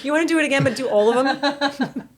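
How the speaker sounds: high-pitched imitation of an eager friend, laughing; laughing impression of a sweet suggestion; mock-sweet. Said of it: "she says it so sweetly".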